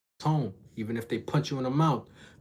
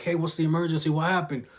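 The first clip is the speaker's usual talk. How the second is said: 911 dispatcher; 5 semitones higher than usual. Retold or imitated. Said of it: "you hear nine one one on the phone".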